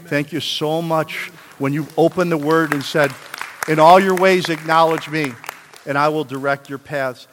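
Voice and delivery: preacher's swelling prayer; fervent loud prayer. Acted. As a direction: cry out the scripture in thanks.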